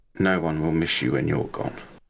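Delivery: quiet in-character murmur. Voicing a character at a graveside, saying it quietly. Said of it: "She's saying it quietly enough".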